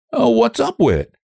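high-pitched broad country dialect. A narrator's reading. Young man answering a scolding in broad dialect. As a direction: protest in broad rural dialect, voice lifted. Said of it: "I can't bear you to talk broad".

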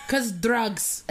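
put-on jokey touch of a Russian accent. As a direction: toss it off in mock Russian. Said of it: "Like a Russian accent?".

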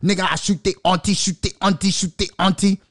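high mock rap of a rapper; imitating a rapper. Quoting the rapper to viewers, high mocking chant. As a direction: bounce the lyric in a mock rapper voice. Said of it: "Bobby Shmurda talk about".

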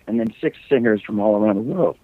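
a real crack in the voice. Real, not acted. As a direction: voice cracks on the last word. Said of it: "My voice cracked like a little kid".

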